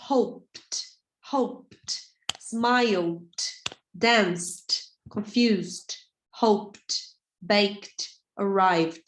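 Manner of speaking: "hoped" dito "houpt", sem pronunciar o E; "-ed" clipped to a bare t or d sound; silent -ed ending. Shown as a demonstration. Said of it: "Então, você pega e faz assim, ó". (pronúncia correta, "baked" como "beikt")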